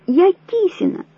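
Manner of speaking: high frantic insistence on я; woman insisting on her name, hysterical, high; hysterical cry. A narrator's reading. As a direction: scream that you are Kisina. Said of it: "истерично закричала Вера".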